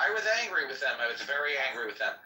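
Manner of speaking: put-on lisped "was", keeping up the old speech; lisping demo on "was"; heavy lisp. Shown as a demonstration. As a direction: stay in the lisp, "was" as "wath". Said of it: "talking like this".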